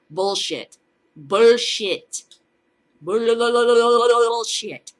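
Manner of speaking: from a flat bullshit to a loud drawn-out yell; building angry shout. Acted. Angry rant at official claim.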